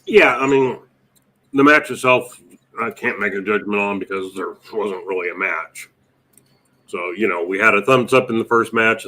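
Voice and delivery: talking with a mouth full of chips; chewing chips while talking; crunching chips. Real, not acted. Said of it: "Wait for me to put chips in my mouth".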